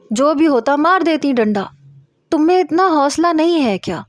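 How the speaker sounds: a mild mock dare, tossed up high; mocking scold. Friend scolds the scared narrator.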